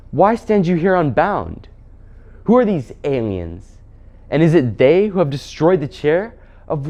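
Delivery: hint of an imperious queen interrogating; witch queen. Witch queen to the freed prince, imperiously questioning.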